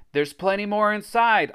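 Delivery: high, loud singled-out call. A narrator's reading. Narrator lures Alex and Jimmy, calling out. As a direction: call temptingly to someone at a distance. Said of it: "I called".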